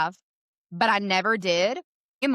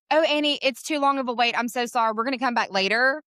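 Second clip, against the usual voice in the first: re-enacted flustered apology, slightly raised pitch; tearfully embarrassed; 3 semitones higher than usual. Customer excusing herself to salon owner, mock embarrassed. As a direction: imitate an embarrassed, hurried excuse. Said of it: "with tears in my eyes 'cause I'm so embarrassed".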